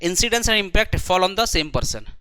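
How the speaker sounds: very slow, word by word, for notes; slow dictation. Shown as a demonstration. Teacher dictating the rule to students, very slow. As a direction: spell out the definition slowly so students write it. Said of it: "आज मैं थोड़ा सा धीरे धीरे बोल रहा हूँ".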